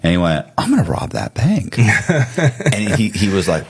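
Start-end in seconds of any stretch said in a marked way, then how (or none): 0.6-1.8 retold sudden resolve. Retold sudden decision to rob.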